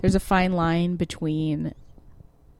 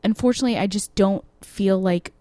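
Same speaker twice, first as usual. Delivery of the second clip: polite breakup line; 2 semitones higher than usual. Pretend. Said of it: "if you say, like".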